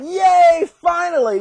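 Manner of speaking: high, relieved hooray; mock cheer. God's people free at last, mock cheering.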